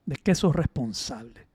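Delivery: retold friend's question. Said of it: "me dice".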